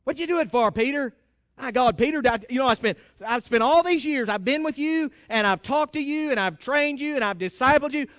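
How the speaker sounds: God mock-rebukes Peter for going back; harsh scolding God. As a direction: berate the knucklehead disciple. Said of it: "get through God's harshness".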